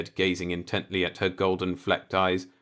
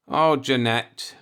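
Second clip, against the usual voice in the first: uncomfortable; 6 semitones higher, 5 dB louder, slower than usual. A narrator's reading. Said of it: "Mark said uncomfortably".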